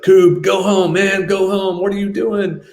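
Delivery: high, loud voice of a guard waving you off; Mike sending us away. Retold or imitated. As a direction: play the Marine telling his friend to go home. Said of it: "he's like".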